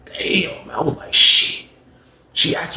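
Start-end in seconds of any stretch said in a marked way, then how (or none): 0.1-0.7 breathy whisper of dismay; a hushed damn after hanging up. Real, not acted. Reaction after hang-up. 1.1-1.7 unvoiced muttered curse; a hushed curse of dismay; whispered shit. Real, not acted. Reaction after hang-up.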